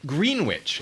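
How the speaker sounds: "Greenwich" said as "green-witch", pitched high; deliberate mispronunciation. Shown as a demonstration. Streamer teasing to make him angry, "Greenwich" mispronounced as "green-witch". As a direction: sound out both halves of "Greenwich", green plus witch. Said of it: "if you really wanna make him angry".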